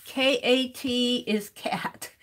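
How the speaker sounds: whispered and slow, K A T is cat; whispered note. Real, not acted. Streamer writes a note, whispering to herself. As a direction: whisper it to yourself while writing.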